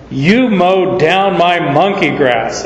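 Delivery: slow, lightly imitated Southern lady drawl; mock scolding in a Southern lady's accent. Elderly landlady scolds her tenant over the lawn, imitated Southern accent. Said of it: "in a true Southern lady accent".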